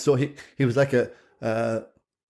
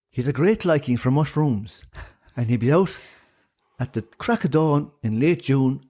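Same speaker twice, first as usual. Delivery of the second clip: lilting Irish storyteller. Pretend. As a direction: tell it like an old Shanachie. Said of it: "give us a good old yarn that a Shanachie would".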